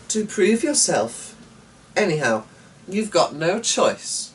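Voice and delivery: a lightly voiced daughter pressing her point; insistent daughter. A narrator's reading. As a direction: daughter pressing father to fight the dragon. Eleanor pressing father.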